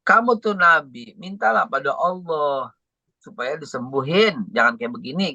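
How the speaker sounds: mildly voiced wifely protest, easing off toward the end; protes istri. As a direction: imitate a wife pleading in complaint. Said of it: "istrinya tuh protes". (istri yang memprotes)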